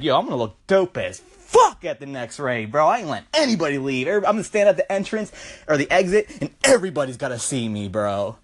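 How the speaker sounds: lightly voiced cocky bro, fast; cocky bouncer. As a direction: brag it quickly like a dude. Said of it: "He's like".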